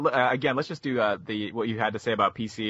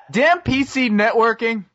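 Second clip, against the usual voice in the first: loud, slow, hammed-up curse; mock outburst; 11 semitones higher, 8 dB louder, slower than usual. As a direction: shout at the computer, overplayed. Mock curse at bad connection.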